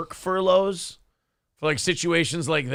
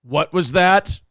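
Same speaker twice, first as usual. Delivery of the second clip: louder, stern challenge; menacing cop; 7 dB louder, slower than usual. Retold or imitated. Chauvin confronting the mouthy suspect, louder and stern. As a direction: dare them to repeat it. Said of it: "you just hear".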